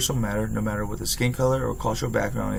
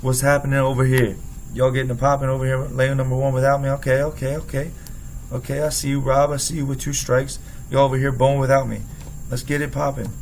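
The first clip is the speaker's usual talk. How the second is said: playful hype; 3 dB louder than usual. Retold or imitated. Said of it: "I threw out some excitement".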